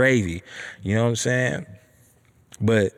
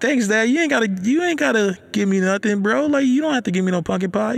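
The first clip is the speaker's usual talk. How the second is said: high-pitched, hurried reluctance; acted polite protest; 12 semitones higher than usual. Son telling dad he needn't give anything, protesting. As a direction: push the gift away in a raised voice.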